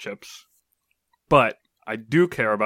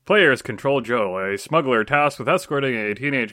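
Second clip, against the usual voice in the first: trailer voice; 4 dB louder than usual. Acted. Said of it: "If you read any game description in that voice".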